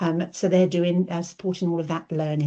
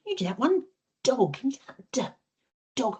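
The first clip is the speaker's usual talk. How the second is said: put-on much higher, singsong voice for a small child; high, lively teacher voice; 7 semitones higher than usual. Shown as a demonstration. Speech therapist coaxing a child to say dog, high and singsong. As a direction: coax a toddler to copy the sound. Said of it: "get them out and say".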